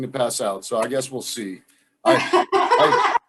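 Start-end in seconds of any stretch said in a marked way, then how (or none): 2.0-3.2 nervous laughing. Real, not acted. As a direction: laugh nervously while talking. Nervous laugh before eating chip.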